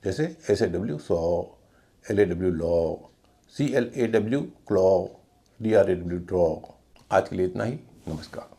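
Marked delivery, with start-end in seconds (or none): 0.0-6.5 सौ, लॉ, क्लॉ, ड्रॉ each on a long, held aw. Shown as a demonstration. Teacher spelling out examples, long aw ending सौ, लॉ, क्लॉ, ड्रॉ. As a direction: draw out the final aw in सौ, लॉ, क्लॉ and ड्रॉ. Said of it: "लंबा ओ".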